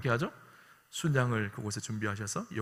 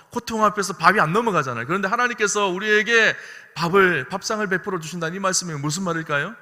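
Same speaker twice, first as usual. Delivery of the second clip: ordinary talk, nothing marked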